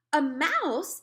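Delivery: sudden high, loud "A mouse!"; exclaiming. A narrator's reading. Woman spotting a mouse in the net, exclaiming. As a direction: blurt it out in surprise. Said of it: "exclaimed the woman".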